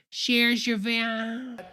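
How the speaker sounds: very slow, toothless mumble; hammed-up slurred speech; imitating Perdue. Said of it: "his teeth go to start falling out".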